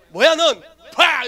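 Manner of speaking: loud, high mock snap at the girl; retold angry retort. Boy snapping back at teasing girl, loud mock anger. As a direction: bark it back like a kid hitting back.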